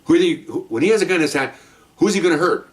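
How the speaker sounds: retold lecture. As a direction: press the point on a rookie. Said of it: "I'm, I'm, I'm lecturing him".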